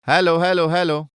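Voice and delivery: loud, ringing call to open the mic check; calling out hello. Real, not acted. Teacher opening an online class, checking the mic, calling out loudly.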